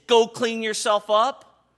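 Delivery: a hint of a stern father barking an order; mild stern dad. Pastor imitating an angry father ordering his child. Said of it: "if he's an angry dad".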